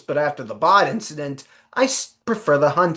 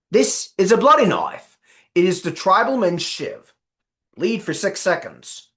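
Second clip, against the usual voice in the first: put-on Australian accent; 4 semitones higher than usual. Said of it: "my Australian accent is not as, uh, good as you think".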